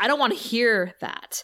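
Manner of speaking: ordinary talk, nothing marked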